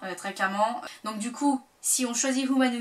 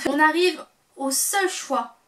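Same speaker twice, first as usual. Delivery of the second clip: nervous; 2 semitones higher, slower than usual. Real, not acted. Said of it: "Je dis ça de manière nerveuse".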